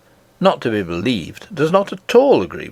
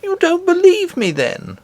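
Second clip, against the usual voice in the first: astonished and angry. Acted. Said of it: "astonished and angry".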